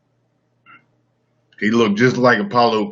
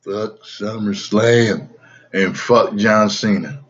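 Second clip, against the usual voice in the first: slow, drawn-out impersonation; deliberate mimicry, words drawn long; put-on impersonation. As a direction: stretch the words in an imitated voice. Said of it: "That was a perfect impression".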